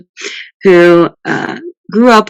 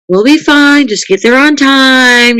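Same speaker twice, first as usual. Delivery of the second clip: grandmother voice; 7 semitones higher, slower than usual. Retold or imitated. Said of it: "Mima would have been like".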